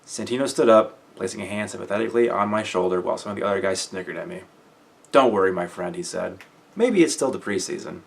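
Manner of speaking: steady audiobook read; story narration. A narrator's reading. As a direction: read the book to listeners. Reads the novel aloud.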